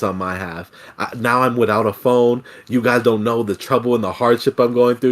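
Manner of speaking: inner Karen. Retold or imitated. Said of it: "I pulled my real inner Karen".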